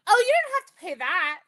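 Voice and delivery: friend eagerly reassuring. Retold or imitated. Friend telling the anesthesiologist about the sale, eager. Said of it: "And my friend goes".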